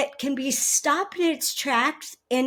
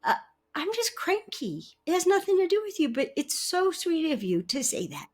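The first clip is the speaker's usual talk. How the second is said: sweet wife; 3 semitones higher, 4 dB quieter than usual. Retold or imitated. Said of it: "the third possibility is".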